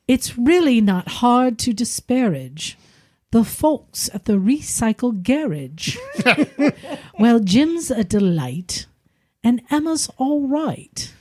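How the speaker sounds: slow, measured limerick reading; limerick recitation. Pretend. Host reads a listener's cruel limerick aloud, slowly. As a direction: read the limerick slowly with a rhyming lilt. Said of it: "to be read in a British accent".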